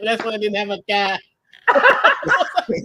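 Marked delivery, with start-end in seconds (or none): 0.0-1.2 lightly imitated Boston accent through laughter; laughing Boston imitation; a singer. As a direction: quote it in amused mock Boston. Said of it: "a singer having an accent".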